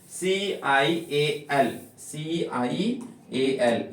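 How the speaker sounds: सीआईएएल spelled letter by letter, very slowly; slow spelling. Shown as a demonstration. Teacher spelling सीआईएएल for the class, slowly. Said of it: "pronunciation करने जाओगे".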